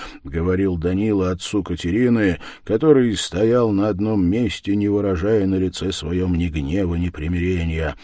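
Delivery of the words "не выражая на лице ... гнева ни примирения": ordinary delivery, nothing marked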